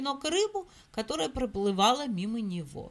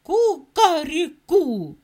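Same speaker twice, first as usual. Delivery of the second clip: loud, slow rooster call; rooster crow; 4 semitones higher, 8 dB louder, slower than usual. Acted. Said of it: "закричал".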